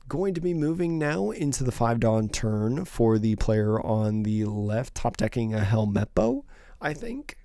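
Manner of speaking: hoarse, worn-out voice. Real, not acted. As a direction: voice going hoarse. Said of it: "I'm losing my voice a little bit".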